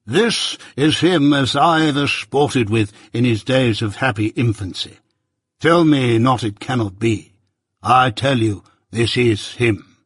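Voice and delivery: lightly voiced pompous old busybody; a hint of a self-important uncle holding forth; Pumblechook, pompous. Pumblechook lecturing young Pip at breakfast, lightly pompous voice.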